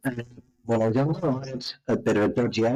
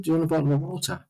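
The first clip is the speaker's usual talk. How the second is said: put-on southern accent, repeated; 5 semitones higher, much faster than usual. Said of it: "I said".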